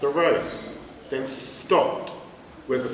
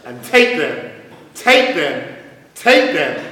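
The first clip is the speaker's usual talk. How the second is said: louder echoing repeat, building; cave echo; 7 dB louder than usual. Acted. The duck echoes the rat from the cave, loud and building. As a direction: throw it back like an echo growing. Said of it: "Come back the welcome sound".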